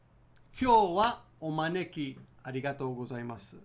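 slow careful model; slow and clear. Shown as a demonstration. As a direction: say it slowly, syllable by syllable. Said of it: "Let's do it again".

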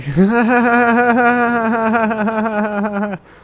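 high loud burst of laughing; loud laughter. Real, not acted. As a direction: laugh it off loudly. Laughing after awkward encounter.

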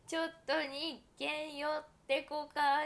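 slow, drawn-out ad jingle voice in Toyama dialect; imitating a TV ad. Telling fans about a Toyama TV ad, slow mock jingle. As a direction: sell it like a regional TV commercial. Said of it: "っていうシーエムがあるの".

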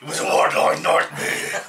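breaking into laughter; laughing it out. Real, not acted. Laughing at the joke.

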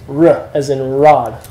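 "R" as a hard English r, as in rod. Shown as a demonstration. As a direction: say "R" with a firm, untrilled r. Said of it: "It's your hard R sound".

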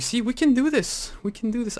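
high-pitched, elated pep talk; excited rallying. Real, not acted. Rallying the team after success.

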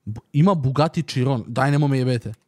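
excited disbelief. Real, not acted. Finds Bugatti on site.

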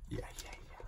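breathy whisper of disbelief; barely voiced, just under his breath. Real, not acted. Quiet disbelief at the gift. (小声でささやくように「いやいやいや」)

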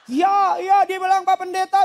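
meniru ibu menangis, nada tinggi dan keras; pura-pura meratap ke pendeta; menirukan tangis kejar. Retold or imitated. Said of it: "dia nangis kejar air mata sama ingus". (menirukan orang menangis tersedu-sedu)

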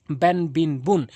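ব্যান, বিন, বুন said short and quick; quick short reading. Shown as a demonstration. Teacher showing learners the quick tanween, ব্যান, বিন, বুন short. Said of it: "এভাবে দ্রুত উচ্চারণ করবেন".

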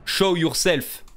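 put-on French accent. Streamer shouting at the ghost in French-accented English. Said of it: "Putain, mon accent, il est pourri".

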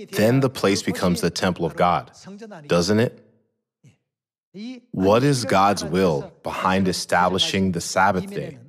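ordinary delivery

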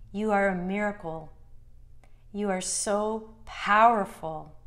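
measured affirmations with long pauses between phrases; guided meditation. Acted. Meditation guide telling the listener they have always been valuable, measured and assured.

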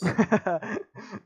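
high clucking chicken noise; mock chicken cluck, high and loud; chicken impression. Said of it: "a very good chicken impression".

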